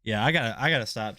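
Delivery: stumbling over repeated words; halting, tripping start; stuttering. Real, not acted. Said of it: "I'm stuttering and everything".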